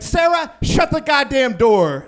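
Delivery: shouting at the roommate by mistake; mock yell. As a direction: bark at the roommate. Yelling at roommate.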